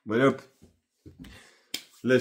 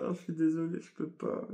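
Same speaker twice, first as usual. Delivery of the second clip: smiling refusal; 7 semitones higher, 7 dB quieter than usual. Retold or imitated. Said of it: "elle a un petit sourire".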